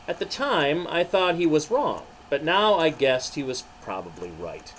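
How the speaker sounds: Peter telling his story. Acted. Pastor voicing Peter to children, ashamed and earnest.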